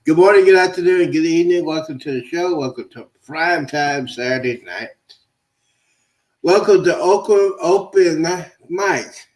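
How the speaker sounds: bright, fast host welcome; announcer voice. Acted. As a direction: hype up the crowd. Show host's welcome.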